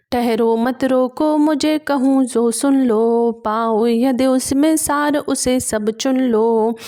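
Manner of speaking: measured recital of classical verse; poem recitation. A narrator's reading. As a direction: declaim each verse line with gravity. Recites verse between explanations. (गंभीर काव्य पाठ)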